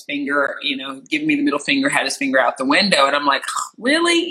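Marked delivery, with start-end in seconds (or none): 3.8-4.3 high-pitched incredulous "really"; irritated disbelief. Retold or imitated. Retelling a reaction to a rude driver, irritated. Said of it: "you're automatically irritated".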